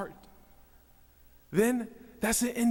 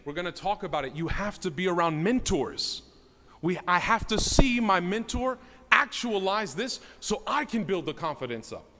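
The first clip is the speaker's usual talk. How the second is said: ordinary talk, nothing marked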